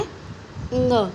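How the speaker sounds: अंग stretched very slowly; drawn-out ang. Shown as a demonstration. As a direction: hold अंग long and clear. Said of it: "इसे हम क्या पढ़ते हैं?". (अंग को बहुत धीरे खींचकर बोलें)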